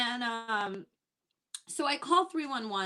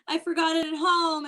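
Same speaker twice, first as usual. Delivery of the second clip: laughing reply; 7 semitones higher, 4 dB louder than usual. Retold or imitated. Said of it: "And I'm like".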